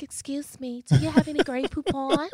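hammed-up fancy diner asking for Grey Poupon; posh diner. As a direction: ask for mustard like a snooty rich guest.

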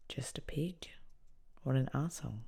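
hushed, almost whispered thought; inner thought. Retold or imitated. Inmate silently cursing the officer, hushed contempt. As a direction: think it under the breath.

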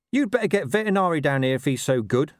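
high-pitched, grumbling dog character; talking dog Gaspode. Acted.

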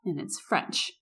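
mock snooty chef setting the waitress straight; haughty correction. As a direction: lecture her like a snob. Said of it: "And my friend goes".

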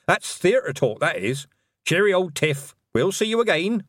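put-on high, cheerful old witch; jolly farewell; cheery old witch. Nanny Ogg voice.

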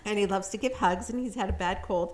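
congested, stuffed-up nose; nasal voice. Real, not acted. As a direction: talk through a head cold. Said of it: "So I don't always sound like this".

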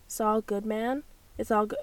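American accent, tailing off. Shown as a demonstration. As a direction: quietly test the American accent. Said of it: "in the American accent".

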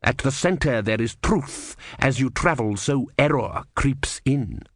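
lightly voiced pious elder, slow and measured; pious superior. Superior warns Brother against travel, pious slow lecture.

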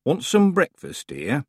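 put-on kindly, slow old woman; an old lady offering breakfast.

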